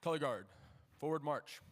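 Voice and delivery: loud parade-ground command; drill command. Real, not acted. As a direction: call the march out crisply. Drill commands to color guard.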